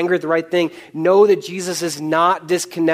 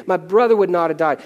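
humble honesty; 4 semitones higher than usual. Acted. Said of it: "And she comes and says".

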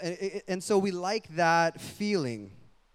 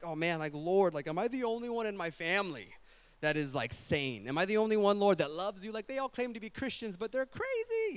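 high, put-upon complaint to God, climbing steeply; a fed-up believer venting about family, pitched way up; exasperated prayer; 5 semitones higher than usual. Retold or imitated. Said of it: "I'm assuming it's like".

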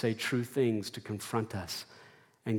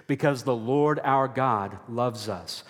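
slow, deliberate lead line; call and response. Shown as a demonstration. Preacher leading the church in a slow recited refrain. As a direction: lead the congregation in the refrain slowly. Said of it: "Say it with me".

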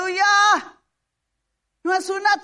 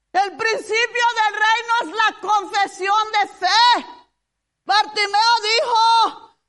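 impassioned sermon voice, crying out the story; fervent preaching. Acted. Preacher telling the church Bartimeo's cry, impassioned.

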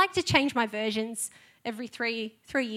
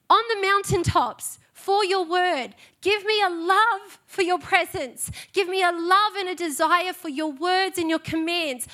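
pleading prayer, pitched higher as it builds; real emotional pleading; 3 semitones higher than usual. Real, not acted. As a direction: cry out to God, choked up and earnest. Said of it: "I'm sorry if I get emotional".

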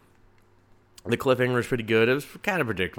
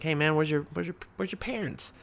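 mock ice cream man; 7 semitones higher than usual. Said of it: "he's just like".

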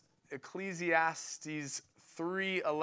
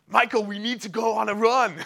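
hammed-up German accent, higher and louder; bad German accent; 5 semitones higher, 6 dB louder than usual. Preacher imitating his passionate running buddy, bad German accent. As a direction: have a clumsy go at a German accent. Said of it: "I'll start in a German accent".

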